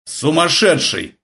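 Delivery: slow, angry bark. A narrator's reading. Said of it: "рявкнул Полундра".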